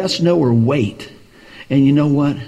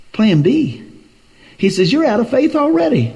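much higher, incredulous rebuke; friend's rebuke; 8 semitones higher than usual. Retold or imitated. Friend rebuking the preacher on the phone, high incredulous. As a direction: hand back his shocked correction high.

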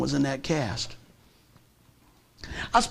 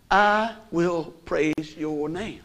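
slow prayer; much slower than usual. Retold or imitated. Retold prayer after the injury.

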